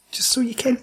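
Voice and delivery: mock whisper.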